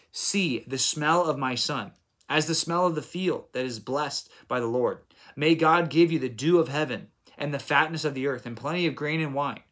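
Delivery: measured reading of a solemn blessing; lightly declaimed Bible verse; scripture reading. Acted. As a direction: read it out as a formal blessing. Reads the father's blessing from scripture.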